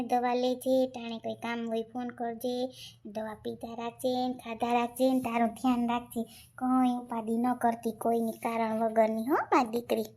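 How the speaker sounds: low, caring farewell; tender parting advice. Acted. Elder woman telling departing daughter to take care, tender. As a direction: gently send a daughter off.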